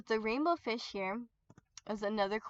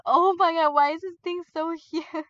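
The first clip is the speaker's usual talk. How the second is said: louder, higher shocked oh my god; shocked exclaim; 6 semitones higher, 9 dB louder than usual. Retold or imitated. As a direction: blurt it out in disbelief. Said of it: "I was like".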